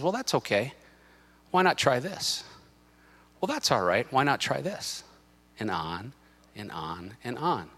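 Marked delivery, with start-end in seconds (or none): 0.0-5.0 soft, casual tempting voice; devil's little voice. Acted. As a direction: coax lightly, as the devil's small voice. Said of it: "the devil's little voice comes in and says".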